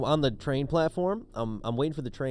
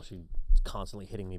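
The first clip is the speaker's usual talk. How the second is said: ordinary talk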